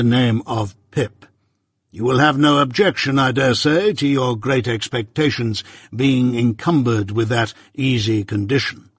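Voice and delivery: measured, stern lawyer, lightly voiced; Jaggers.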